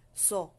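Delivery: "So" short, with a heavy, rounded S; thick SO. Shown as a demonstration. Teacher shows the heavy letter sound, thick SO. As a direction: make the "So" thick, cut it short. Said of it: "Makapal siya".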